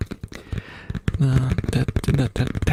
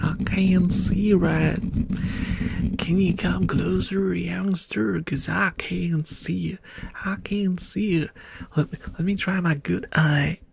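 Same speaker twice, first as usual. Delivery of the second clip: lightly voiced old-timer, pitched up; old codger; 4 semitones higher than usual. Old-timer squinting at a youngster, lightly aged voice. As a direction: play a hint of a doddery elder.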